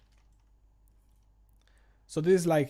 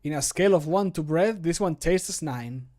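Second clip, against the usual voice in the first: character voice line; 4 dB louder than usual. Acted. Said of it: "recording voice line takes".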